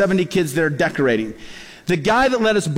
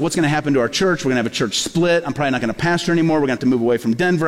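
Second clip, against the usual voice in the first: fast, lower, spiralling anxious thoughts; panicky worry; 4 semitones lower, faster than usual. Retold or imitated. Pastor imagining his church splitting, fast anxious spiral. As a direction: rattle off fears tumbling over each other. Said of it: "then I started getting scared".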